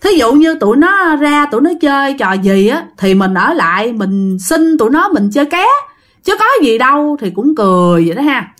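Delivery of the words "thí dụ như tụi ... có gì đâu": mildly dismissive objection, lifting in pitch; arguing back. Acted. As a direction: push back against a friend's worry. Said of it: "ông Hải mới cự". (cự lại, hơi gắt)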